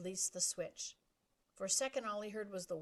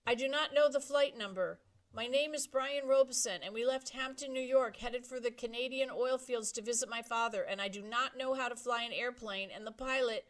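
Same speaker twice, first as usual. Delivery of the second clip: loud, much higher, pleading for help; frightened pleading; 5 semitones higher, 8 dB louder than usual. Acted. Boy telling the radio the pilot had a heart attack, frightened. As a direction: beg for help, voice rising.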